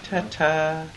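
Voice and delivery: Ta-ta, each syllable crisp and separate; over enunciating. Shown as a demonstration. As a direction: spell out Ta-ta slowly, clearly. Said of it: "Say it again".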